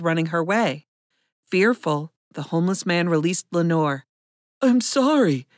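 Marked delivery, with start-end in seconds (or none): 4.6-5.5 higher, desperate apology; desperation. A narrator's reading. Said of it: "desperation in his voice".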